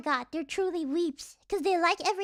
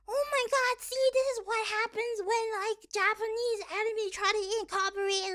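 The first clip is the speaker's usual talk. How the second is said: higher-pitched imitation of complainers; mock outrage; 4 semitones higher than usual. Imitating Twitter users upset over an anime, mock outrage. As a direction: whine like an overwrought online critic.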